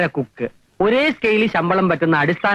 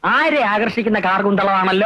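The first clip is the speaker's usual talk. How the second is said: mock-admiring line at an even pitch; teasing admiration. Gardener teases cook about her hair, teasing admiration. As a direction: lightly tease with a flowery compliment.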